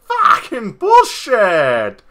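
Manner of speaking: laughing outburst. Real, not acted.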